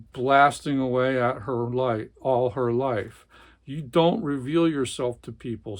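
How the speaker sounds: dramatic read-aloud of a tense family scene; novel reading. A narrator's reading. Book reviewer reading a novel passage, dramatic narration. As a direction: read it like a gripping literary passage.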